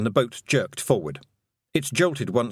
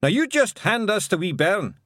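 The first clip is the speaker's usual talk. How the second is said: high, loud broad Scottish call; shouting; 9 semitones higher, 4 dB louder than usual. Acted. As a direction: call out like a wee Scotsman. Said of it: "shouted Rob Anybody".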